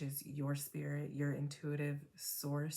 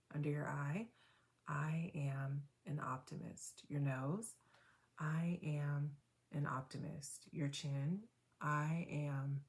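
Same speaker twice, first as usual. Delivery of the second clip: guided tapping affirmations. Acted. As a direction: coach a listener through tapping points, calmly and gently. Leads a tapping affirmation round.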